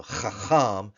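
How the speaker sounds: "chacham" slowly with guttural ch sounds; throat-clearing ch. Shown as a demonstration. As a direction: rasp both ch sounds in "chacham". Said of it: "you need to clear your throat".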